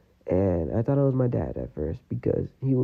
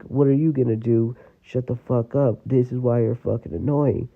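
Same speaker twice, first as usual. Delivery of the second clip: mildly raised, imitating an angry dad; retold yelling; 2 semitones higher, 4 dB louder than usual. Son quoting his dad telling him off, mild mock yell. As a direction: retell dad's outburst with a touch of heat. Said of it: "still spending time yelling".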